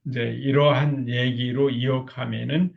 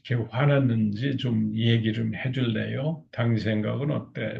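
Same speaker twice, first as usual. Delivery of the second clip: lowered calm voice. Shown as a demonstration. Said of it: "목소리도 좀 더 이렇게 낮추면서".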